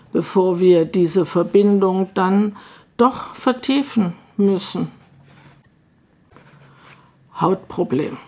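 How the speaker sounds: measured poem recital with deliberate pauses; poetry reading. Acted. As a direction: read the poem line by line, letting each one settle. Reads own poems aloud. (Gedichtvortrag mit bedachten Pausen)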